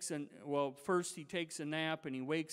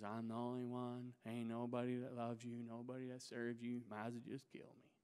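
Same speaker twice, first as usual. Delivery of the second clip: self-pitying complaint; 4 semitones lower, 6 dB quieter than usual. Retold or imitated. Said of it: "the same exact thing".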